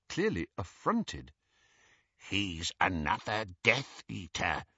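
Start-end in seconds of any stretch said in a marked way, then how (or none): 2.3-4.6 soft breathy warning, a touch softer; breathed. A narrator's reading. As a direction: breathe it into his ear. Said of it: "breathed Griphook".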